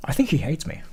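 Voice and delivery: whispered, hurt and sulking; sulky whisper. Acted. Snubbed guy whispering his grievance. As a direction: breathe it out like a wounded kid. Mock sulking about being ignored.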